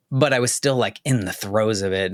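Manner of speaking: choked up, fighting tears; choking up. Real, not acted. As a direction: voice tight with held-back tears. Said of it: "obviously I'm choking up a little bit now".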